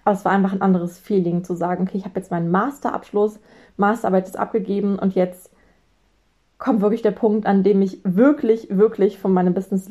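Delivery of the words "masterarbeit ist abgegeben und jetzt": ordinary talk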